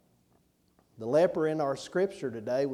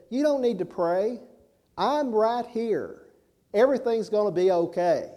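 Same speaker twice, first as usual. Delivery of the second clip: higher, louder comforting voice for the dying woman; reassuring; 7 semitones higher, 5 dB louder than usual. Retold or imitated. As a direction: soothe her like a rescuer who won't leave. Danny reassures dying lady.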